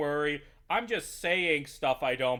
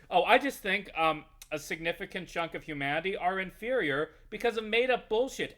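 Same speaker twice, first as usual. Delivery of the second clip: mock astrology believer; 5 semitones higher, 3 dB louder than usual.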